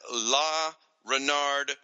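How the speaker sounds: "La Renard" slowly, word by word; tentative French. Real, not acted. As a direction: sound out "La Renard" carefully as attempted French. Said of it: "I'm gonna do my best".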